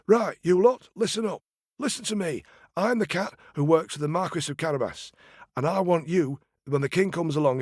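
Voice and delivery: high, commanding order to the workers; bossy cat. Acted. Cat ordering the peasants to lie to the king, bossy. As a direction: lay down the law.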